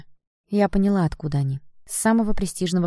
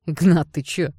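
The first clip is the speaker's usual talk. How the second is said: louder indignant shout; outraged yell; 2 semitones higher, 7 dB louder than usual. Acted. Blond yells to Ignat that she poured cocoa on him, loud and outraged. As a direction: yell to justify yourself. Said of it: "заорал блондин".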